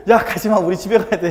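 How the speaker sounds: loud, high mock shout at friends; bossy girl shout. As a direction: call the friends back, shouting. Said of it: "저 못생긴 애가 꼭".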